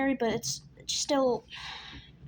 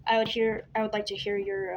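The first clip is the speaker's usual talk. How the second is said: stumbling over the words; tripping on the start of the sentence; stuttering. Real, not acted. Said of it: "Sorry, I'm stuttering a lot".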